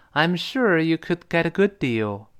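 slow it a little for learners. Shown as a demonstration. Teacher repeating the line for students, slowed down. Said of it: "咱慢一点，再来一遍啊".

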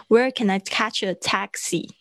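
Where can I catch a taxi? falling like a statement; falling tune. Shown as a demonstration. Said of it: "你的语调下降".

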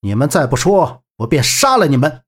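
restrained, understated threat; threatening. Acted. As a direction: threaten without raising the voice. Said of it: "威胁道". (压着声音威胁)

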